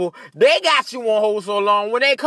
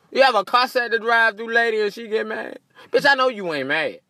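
ordinary talk, nothing marked

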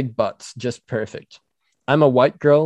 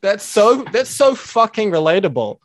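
mock gushing; 9 semitones higher, 4 dB louder than usual. Mocking viewer praise.

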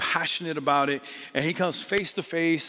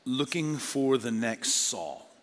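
slow emphasis; 4 semitones lower, 3 dB quieter, slower than usual. Shown as a demonstration. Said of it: "I'm just gonna call it this".

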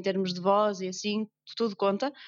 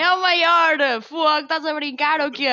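excited; 6 semitones higher, 8 dB louder, slower than usual. Real, not acted. Agreeing the northern accent is best.

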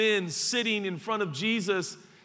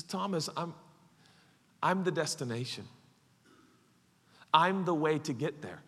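calm reply; 4 semitones lower, 5 dB quieter than usual. Acted. Voices Jesus calmly answering Thomas.

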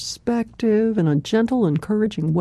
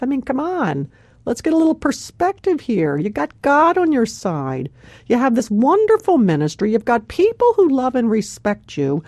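exasperated scolding. Retold or imitated. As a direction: scold like someone fed up with hands on hips. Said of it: "all exasperated, and say".

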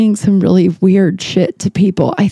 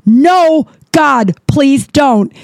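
high, slow mock pleading; a hammed-up plea; 6 semitones higher, much slower than usual. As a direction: beg her not to sing. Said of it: "And she went".

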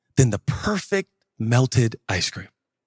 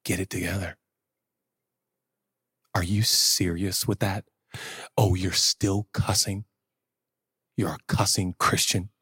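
low, subdued disapproving father; lightly voiced father, low and reproving; stern imagined God; 6 semitones lower, 4 dB quieter than usual. Imagined God scolding a believer, low and stern. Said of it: "it goes something like".

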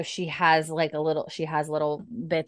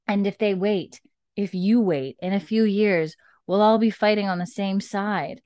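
louder, higher pressing appeal; urgent plea; 4 semitones higher, 6 dB louder than usual. Retold or imitated. Roger begging Murtagh to disperse his men, urgent raised plea. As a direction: push hard to make him see reason.

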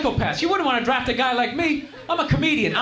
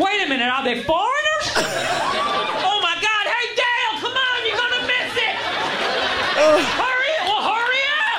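excited redneck; 6 semitones higher than usual. Retold or imitated. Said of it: "They're just like".

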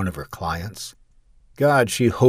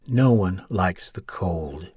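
resigned; slower than usual. Acted. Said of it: "she said resignedly".

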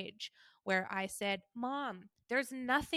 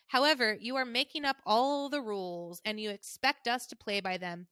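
mom's tone; 4 dB louder than usual. Retold or imitated. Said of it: "this is how she talks".

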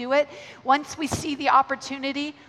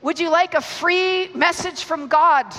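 bright bold offer; 4 semitones higher, 5 dB louder, slower than usual. Retold or imitated. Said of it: "She says to him".

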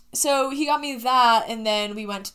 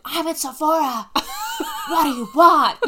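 high, loud nerdy voice; sniffly nerdy guy; 6 semitones higher, 6 dB louder than usual. Retold or imitated. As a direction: play a flustered sniffly nerd. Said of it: "sniffly nerdy guy impression".

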